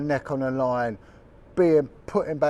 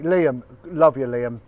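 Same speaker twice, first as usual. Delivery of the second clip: fond call out; 6 dB louder, slower than usual. Real, not acted. Calling out fondly to Liam.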